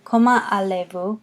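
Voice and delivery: "allez" said ah-lay, no Z before "vous"; silent Z. Shown as a demonstration. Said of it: "is silent there".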